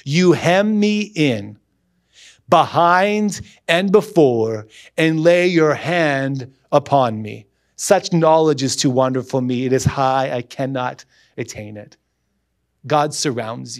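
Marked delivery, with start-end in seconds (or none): 0.1-12.0 slow scripture reading. Acted. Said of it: "Now catch this".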